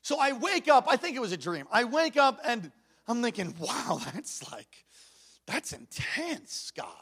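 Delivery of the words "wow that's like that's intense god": slow, hushed amazement; drawn-out quiet awe, acted; stunned musing. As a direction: think aloud softly, spacing it out. Voicing his stunned waking thought.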